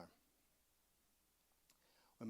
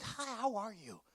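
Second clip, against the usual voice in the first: sing-song greeting; 8 semitones higher than usual. Retold or imitated. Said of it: "She was like".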